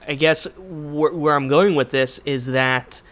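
slow, losing the thread; trailing off mid-thought. Real, not acted. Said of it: "See, I lost my train of thought".

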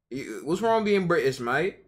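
put-on jokey Brit telling the chat to piss off, British accent; mock British accent. Streamer playing an offended Brit for chat, mock British accent. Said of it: "anybody wanna be British?".

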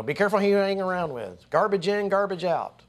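wag a finger as a parent would; parent warning. Retold or imitated. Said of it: "your parents probably said".

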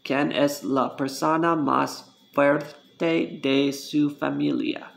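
careful learner's Spanish on "¿Quién es la persona más fuerte de su familia?", word by word; pronunciation demonstration. Shown as a demonstration. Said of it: "how it's pronounced".

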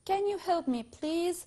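can you help me please said high and slow with can stressed; emphatic demo. Shown as a demonstration. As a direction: open high on can and lift the whole request. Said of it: "نشوف كده مع بعض". (نطق can you help me please بنبرة عالية وبطء)

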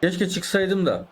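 mock regret. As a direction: stretch it out as the beaten opponent. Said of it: "dedirteceğim şimdi ona".

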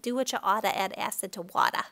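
light Boston accent, dropped R. Shown as a demonstration. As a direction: say it the Boston way, oughta and wada. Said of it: "with, like, a Boston accent there".

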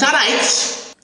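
lightly lilting Welsh accent; a stretched-out Welsh turn of phrase. Shown as a demonstration. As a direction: say it with a Welsh lilt. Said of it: "as they say in the Welsh accent".

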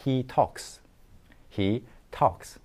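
"talks" ending in an unvoiced ks hiss; voiceless final S. Shown as a demonstration. Teacher modelling the verb ending for learners, with voiceless S. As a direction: finish "talks" on S, never Z. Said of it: "무성음인 S로 발음해".

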